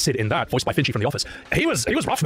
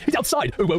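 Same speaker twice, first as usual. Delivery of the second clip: imitating characters; 5 semitones higher, slower than usual. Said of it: "He's like".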